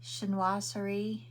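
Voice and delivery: slow, careful "Chinoiserie"; unsure, deliberate "Chinoiserie"; careful pronunciation. Real, not acted. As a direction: sound out "Chinoiserie" slowly, syllable by syllable. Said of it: "how do I say it?".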